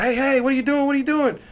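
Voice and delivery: high, loud alarmed shout; alarmed yell. Retold or imitated. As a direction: call him off, startled and loud. Colby scolding teammate at coffee machine.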